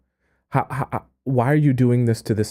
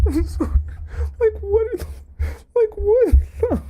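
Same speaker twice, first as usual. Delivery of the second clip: squeaky, much higher voice of disbelief; a high, strangled "what the". Real, not acted. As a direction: squeak out your shock. Shocked reaction to story.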